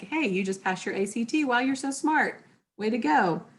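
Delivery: cheerful praise for passing a test; congratulatory. Shown as a demonstration. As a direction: sound proud of them. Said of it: "I'm being congratulatory".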